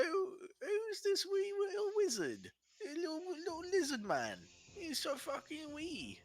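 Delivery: a big brute sneering at something tiny; giant voice. Acted.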